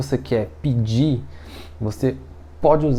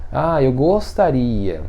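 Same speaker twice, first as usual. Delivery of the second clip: tentative wish; slower than usual. Shown as a demonstration. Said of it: "mas no sentido de gostaria".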